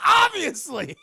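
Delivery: high, loud comic outburst; mock shout. Van Helsing states the discovery, hammed-up shout. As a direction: blurt it at full volume.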